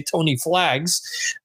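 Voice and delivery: a slow, fond "Tony Flags"; brother's nickname. Retold or imitated. Host quoting his brother's pet name, slow and fond. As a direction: drawl the nickname fondly like a brother. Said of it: "as my brother likes to affectionately say".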